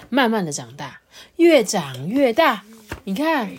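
sing-song storyteller, stretching key words; children's storytelling. Acted. Adult tells a child how the vegetables grew, storytelling. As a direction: tell it to a little listener with swooping phrases.

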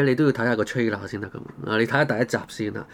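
ordinary talk, nothing marked

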